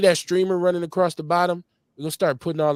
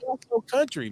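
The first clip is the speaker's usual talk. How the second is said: mocking Chicago teaser; 10 semitones higher than usual.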